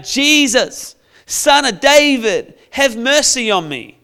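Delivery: pleading call, slow on Son of David; calling out to Jesus. Retold or imitated. Blind beggar calling out to Jesus, pleading. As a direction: cry out for mercy. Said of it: "The Bible says he started shouting out".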